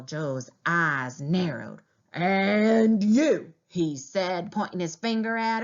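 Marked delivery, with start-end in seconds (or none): 2.1-3.5 1 loud retort. A narrator's reading. Tall Joe turns on her.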